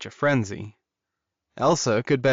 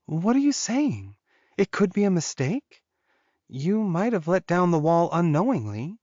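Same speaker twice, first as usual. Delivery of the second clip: high, panicked and trembling; 7 semitones higher than usual. A narrator's reading. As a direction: blurt it out in a panic. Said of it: "said in a panicked voice".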